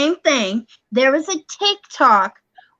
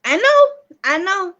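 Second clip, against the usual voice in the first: exasperated; 6 semitones higher than usual. Real, not acted. Exasperated outburst.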